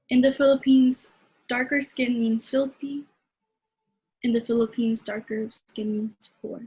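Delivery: rhythmic spoken-word refrain; slam poetry. Acted. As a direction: build the repeated lines like slam poetry. Performs poem Scrub Hard.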